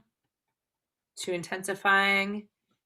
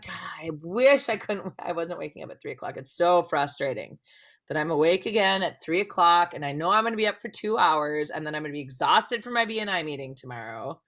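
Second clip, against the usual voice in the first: frustrated self-talk; 2 semitones lower, 3 dB louder than usual. Acted. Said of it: "Maybe we're frustrated that we're awake".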